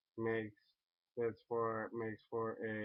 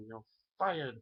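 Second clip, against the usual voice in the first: a light take on Trump, a bit higher; Trump impression; 4 semitones higher, 3 dB louder than usual. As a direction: try out the catchphrase gently. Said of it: "do a Trump impersonation".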